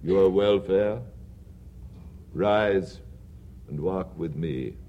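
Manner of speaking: a hushed, low spirit voice; low, quiet ghost. Acted. Ghost of Christmas past telling Scrooge what he will see, in a low hush. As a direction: speak low and soft as a spectre.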